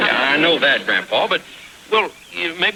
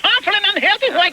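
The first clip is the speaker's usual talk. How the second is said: much higher, outraged disbelieving echo; incredulous. Acted. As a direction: throw the words back, stunned. Repeating the lady's words in disbelief.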